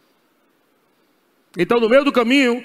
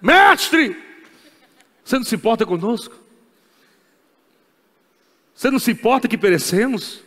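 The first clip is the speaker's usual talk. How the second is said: reproachful disciples. Retold or imitated. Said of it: "quiseram dar uma lição de moral".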